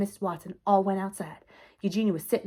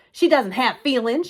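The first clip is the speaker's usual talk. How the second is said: loud, higher-pitched retort; shout; 5 semitones higher, 8 dB louder than usual. A narrator's reading. Eugenia argues with her sister about the pig, shouting. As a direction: shout down the objection. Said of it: "shouted Eugenia".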